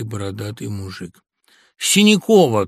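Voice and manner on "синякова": abrupt name. A narrator's reading. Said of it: "пробормотал он".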